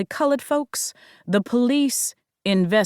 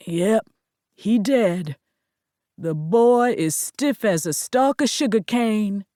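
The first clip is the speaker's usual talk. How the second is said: gently; 2 semitones higher than usual. A narrator's reading. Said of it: "he said gently".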